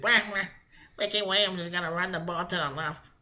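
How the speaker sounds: lightly put-on Popeye-style voice; sea hag voice. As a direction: do a rough football coach impression. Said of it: "looked like the old fucking the sea hag".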